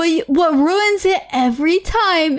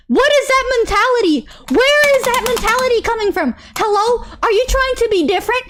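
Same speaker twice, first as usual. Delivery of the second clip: fast, higher, incredulous rapid-fire questions; exasperated rant; 5 semitones higher, faster than usual. Retold or imitated. Ranting at Twitter fans who defend Chris, exasperated and fast. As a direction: pepper them with disbelieving questions.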